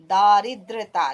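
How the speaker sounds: दारिद्रता with a long, loud first syllable. Shown as a demonstration. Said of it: "पर कई लोग क्या लिखते हैं".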